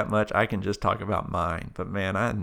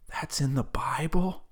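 whispered, surprised question; 6 semitones higher than usual. Retold or imitated. Woman whispering to a friend mid-sermon, amazed. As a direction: whisper it across during the sermon. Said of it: "she's whispering over to me".

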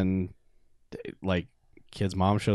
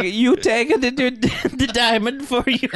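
much higher fake Italian accent, amused; mock Italian accent; 13 semitones higher, slower than usual. Friend mimicking the kid's diamond offer, mock Italian accent. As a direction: ham up a bad Italian accent. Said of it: "you don't have to do the accent".

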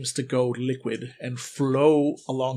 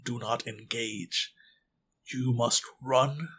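put-on a leader warning the children soberly; stern principal. Principal briefs children gravely.

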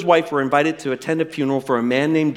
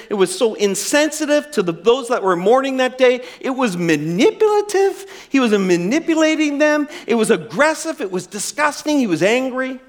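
raised, high, indignant venting; heated venting; 7 semitones higher than usual. Retold or imitated. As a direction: vent your outrage on the drive home. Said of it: "He's so furious".

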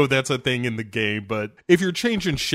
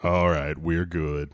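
Balrog dub; 9 semitones lower, 5 dB quieter, slower than usual. Pretend.

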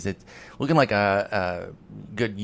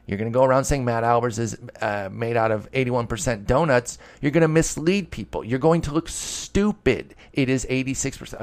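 mock anger; 2 semitones higher than usual. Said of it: "I'm sorry to get angry".

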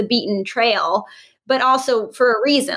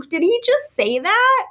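higher and slower, mildly stunned; stunned disbelief; 10 semitones higher than usual. Retold or imitated. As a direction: replay the moment of shock, slowly. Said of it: "I was like".

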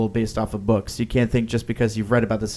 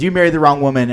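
retold accusation, a bit louder and slightly raised; mildly upset, louder retold quote; upset retelling; 3 semitones higher, 5 dB louder, faster than usual. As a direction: push the line out like a stung, upset jab. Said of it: "He becomes very upset".

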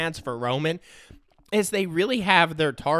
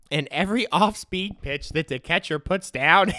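normal talking voice

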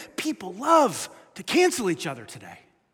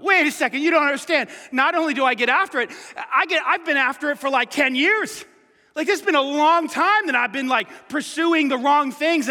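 higher, louder pleading objection; protesting sinner; 5 semitones higher, 4 dB louder than usual. Retold or imitated. Pastor voicing a sinner arguing with Jesus, pleading. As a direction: push back as the guilty listener.

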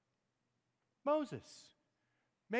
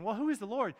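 dismissive Pharaoh, raised and louder; loud, high, mock-ignorant challenge; sarcastic; 6 semitones higher, 6 dB louder than usual. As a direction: throw the question out as a scornful challenge. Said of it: "might have been asking that question sarcastically".

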